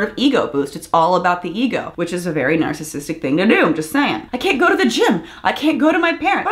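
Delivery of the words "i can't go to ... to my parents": high mocking whine breaking into laughter; laughing mockery. Mocking the husband's excuses to viewers, with a high laughing whine. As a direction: parody his whining and crack up.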